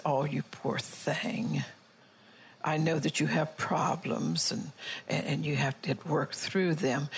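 drawn-out mock sympathy; mock pity. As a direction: parody a too-gentle comforter, slowly. Mocking the soft-hearted approach.

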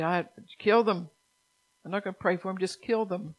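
acted refusal to forgive, hammering the verb; mock vengeful outburst. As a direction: punch "kill" loudly, as an imagined unforgiving person. Acting out an unforgiving listener.

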